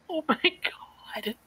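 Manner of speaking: high, drawn-out breathless gasp; overcome with amusement. Real, not acted. Reacting to the forgotten Korean movie, overcome with amusement. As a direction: squeeze it out slowly, almost voiceless.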